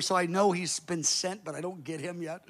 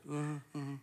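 imitated groaning; 3 semitones lower, 12 dB quieter than usual. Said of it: "She's kind of groaning".

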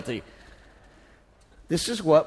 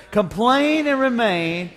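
shouted slogan; slower than usual. Shown as a demonstration. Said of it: "Let's all shout that together".

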